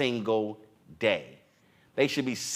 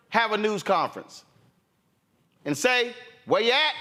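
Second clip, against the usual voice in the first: fired-up challenge; 10 semitones higher than usual. Retold or imitated. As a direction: rally cry at the other side, voice up high.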